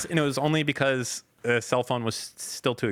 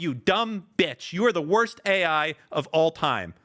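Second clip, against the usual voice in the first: higher-pitched, exasperated tirade; angry insult; 4 semitones higher than usual. Real, not acted. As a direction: berate a useless assistant.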